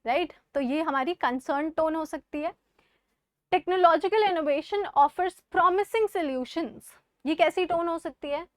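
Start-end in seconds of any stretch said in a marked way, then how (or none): 3.5-6.9 optimistic reading. Shown as a demonstration.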